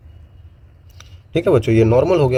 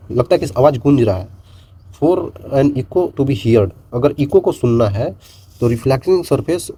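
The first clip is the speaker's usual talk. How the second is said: slow definition read; slower than usual. Acted. Reads definition slowly.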